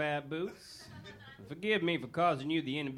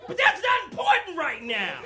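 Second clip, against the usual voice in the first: much higher, louder brushoff; high abrupt switch; 12 semitones higher, 7 dB louder than usual. Acted. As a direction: snap back to business high. Gordon repeats, higher.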